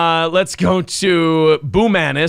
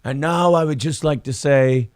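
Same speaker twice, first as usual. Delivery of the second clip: tough East Coast guy sneering, a touch higher; heavy East Coast accent; 5 semitones higher than usual. Retold or imitated. East Coast accent mocking the alien believers as nerds. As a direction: East Coast accent, scoff like a Boston wiseguy. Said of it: "He's got a heavy East Coast accent".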